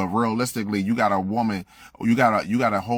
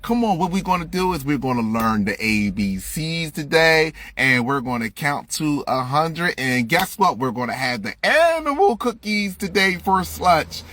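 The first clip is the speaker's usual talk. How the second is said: mock teacher; 8 semitones higher than usual. Mocking kindergarten teacher again.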